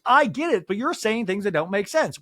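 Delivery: Anne Marie raising voice. Retold or imitated. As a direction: imitate someone raising their voice in irritation. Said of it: "Anne Marie raising her voice".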